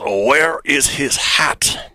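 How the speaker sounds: slow, hammed-up French accent; a Frenchman groping for the word lid. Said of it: "in a French accent".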